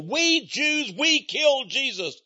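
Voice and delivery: high, sneering mock quote; mocking boast. Preacher mimicking a bragging voice for listeners, high and mocking. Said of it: "for them to brag".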